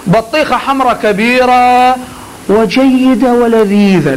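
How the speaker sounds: slow, relishing "لذيذة" as if tasting it; savoring demo. Shown as a demonstration. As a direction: let the sweetness sit in "بطيخة حمرا كبيرة". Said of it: "قول".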